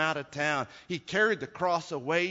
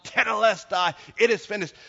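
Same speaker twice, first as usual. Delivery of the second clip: lightly acted cry, raised pitch; moderate retold yell; 6 semitones higher, 6 dB louder than usual. Preacher voicing a priest after the sacrifice, moderate retold yell. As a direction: call it out without a full shout. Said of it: "he yells out".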